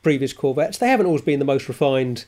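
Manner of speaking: hoarse, croaky throat. Real, not acted. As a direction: speak with a frog in the throat. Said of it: "the croaky voice of the speaker".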